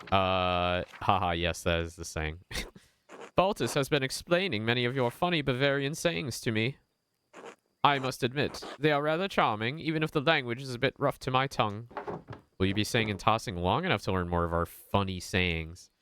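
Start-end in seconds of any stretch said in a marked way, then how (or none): 3.4-11.9 put-on higher, courteous Italian-accented merchant; gentle Italian accent, lifted pitch, unhurried. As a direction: speak as a polite Genoese trader in an Italian accent. Voices Naziu, Genoese merchant.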